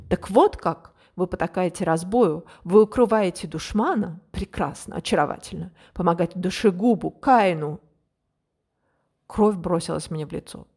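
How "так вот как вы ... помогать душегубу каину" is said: furious accusation. Acted. Enraged adjutant accuses princess.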